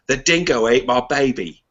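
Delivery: put-on a weak, half-hearted Australian accent on the famous line; quoting the dingo line in a bad Australian accent. Podcast host quoting the old news line to his co-host, in a bad Australian accent. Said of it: "that's a bad Australian accent".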